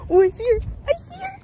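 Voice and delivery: excited shout. Real, not acted. Spots her friend across campus.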